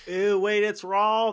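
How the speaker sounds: high-pitched disgusted surprise; grossed out. Real, not acted. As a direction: recoil in squeamish alarm. Grossed out by raw beef.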